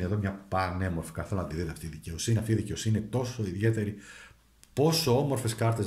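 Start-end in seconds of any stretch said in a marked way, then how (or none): 4.7-5.9 delighted at the cards; Πόσο lifted with admiration; admiring. Real, not acted. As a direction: show them off. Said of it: "κοιτάξτε εδώ".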